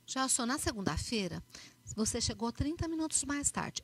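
a lightly voiced calm manager; assertive feedback. Shown as a demonstration. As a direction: state the fact plainly, no blame. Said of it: "o feedback é assertivo".

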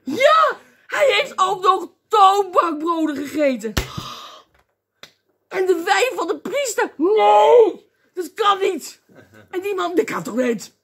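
high, loud mock horror; scandalised outrage. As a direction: protest in hammed-up disbelief. Acting a scandalised Bible reader.

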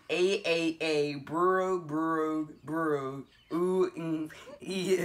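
gargling nonsense sounds; while gargling. Pretend. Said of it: "make silly sounds".

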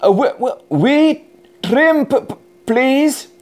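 stuttering, hesitant request; mild nervous stutter; nervous stammer. Acted. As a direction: get the words out through nerves. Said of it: "still felt a bit nervous".

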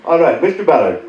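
put-on telemarketer with an Indian accent; put-on Indian phone-sales voice. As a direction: imitate an Indian caller politely asking. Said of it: "most of them are Indian".

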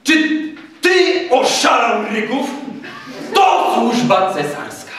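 high, indignant outburst from an irate major; outraged officer scolding a subordinate; angry snort. A narrator's reading. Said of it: "od gniewu parska".

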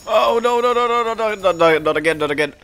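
high rapid-fire string of no's, easing down; panicked protest. Real, not acted. Gamer running from trouble, panicked high protest. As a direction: panic at it happening, starting high.

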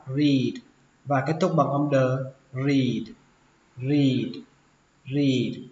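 "read" with the ee drawn out; long i. Shown as a demonstration. Teacher showing learners a long vowel, "read" drawn out. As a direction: stretch the vowel in "read", then close on d. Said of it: "các bạn phải kéo nó ra".

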